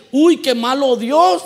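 mock outrage. Mocking complainers about God.

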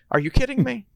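very high, loud disbelief; incredulous outburst. Acted. A character cries out in disbelief at the others, very high and loud. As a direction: shriek your disbelief.

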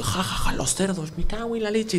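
a half-hearted mock laugh through the words; mock laughter. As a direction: imitate the choir cracking up. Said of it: "cada vez que esto".

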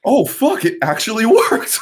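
loud, high-pitched laughing disbelief; mock amazement. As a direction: play astonished schemers, breaking into laughter. Acting foreign powers amazed by success.

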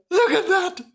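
hammed-up delighted admiration; beaming delight. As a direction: marvel aloud, starting high then settling. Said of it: "Mister Flange beamed at her".

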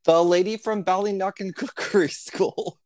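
sing-song Irish lilt on the school name; Irish accent. Retold or imitated. Friend imitating the Irish TV cook in a lilting Irish accent.

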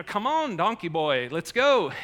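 hammed-up "giddy up" nudge; a frustrated rider pushing a stubborn donkey on; urging the donkey. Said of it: "Balaam's like".

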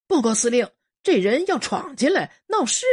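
提高音调大声报告; 高声向长官告状; 哨兵报告. Acted. 哨兵向司令报告. (哨兵大声报告)

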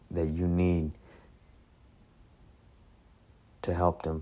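earnest spoken prayer, lowering at the ends. Acted. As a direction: pray over the listeners, steady and sincere. Leads a closing prayer.

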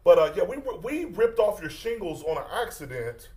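pushy roofer on the phone; prank caller voice. Acted. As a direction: fake contractor pressing for payment.

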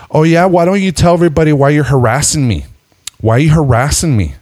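mock accusing. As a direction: confront him in a put-on high voice. Retold woman accusing him.

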